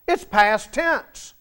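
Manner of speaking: It's past tense drawn out slowly; slowed emphasis. Real, not acted. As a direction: spell it out slowly for them. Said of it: "You know why I like that word?".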